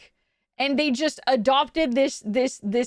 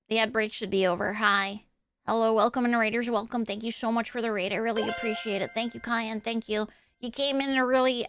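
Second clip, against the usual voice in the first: Ditzy; 4 dB quieter than usual. Pretend. Nerd from the basement greeting the stream, awkward and soft. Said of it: "after I bring out Ditzy Nerd".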